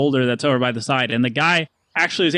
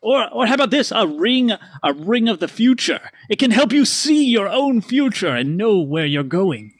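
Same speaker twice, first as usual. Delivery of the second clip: higher, eager showman; merchant pitch; 5 semitones higher than usual. Acted. Stanley offering amulet and ring. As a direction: rattle off wares. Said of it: "He goes".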